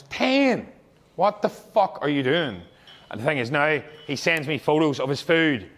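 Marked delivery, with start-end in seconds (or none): 0.0-2.6 ten shot up high in disbelief; shocked coach, half-joking outrage; incredulous shout. Retold or imitated. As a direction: react like you can't believe it. Shocked at client waking late.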